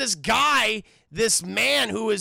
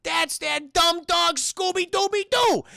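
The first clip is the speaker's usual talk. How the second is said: slow scolding villain, climbing to a high shout; cartoon villain; 4 semitones higher, 4 dB louder, slower than usual. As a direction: berate the bungling henchmen, building as you go. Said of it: "Indian witch doctor goes".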